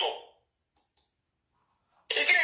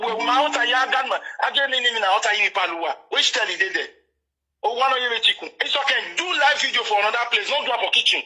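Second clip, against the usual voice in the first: louder, worked-up scolding; heated rant; 6 dB louder than usual. Real, not acted. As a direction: tear into him, daring him to show his place.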